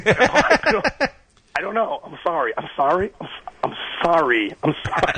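apologising while stuck in a Southern drawl. Retold or imitated. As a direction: repeat the apology, trying to shake off the drawl. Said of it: "took me a while to get it back".

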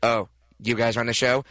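a hint of Jack Black hyping up the room; Jack Black impression. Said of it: "This is my impression of Jack Black".

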